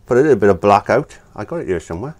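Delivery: talking round a paintbrush; words muffled by a brush between teeth; brush in mouth. Real, not acted. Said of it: "I got a brush in my mouth".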